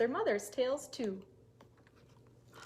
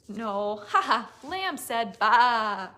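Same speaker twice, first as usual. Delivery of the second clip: laughing reply; 10 dB louder, much slower than usual. Acted. Lamb answers, laughing.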